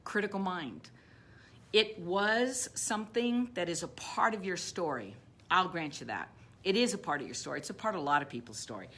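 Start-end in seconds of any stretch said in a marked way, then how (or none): 1.7-5.1 whisper. Real, not acted. Confiding aside to the audience.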